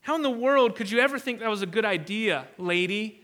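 imitating men scolding a woman; mildly indignant, incredulous telling-off. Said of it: "And then they scolded her".

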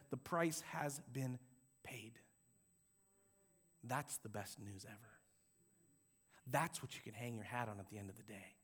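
very low, very soft preaching; solemn, hushed and deep; hushed reverence. Real, not acted. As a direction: drop almost to a murmur for the weighty truth. Hushed climax of the sermon.

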